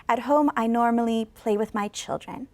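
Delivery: falling model sentence; falling intonation. Shown as a demonstration. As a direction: end falls on "children". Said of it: "going down and going down".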